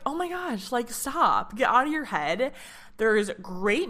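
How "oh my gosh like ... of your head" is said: self pep talk. Retold or imitated. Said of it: "I was like".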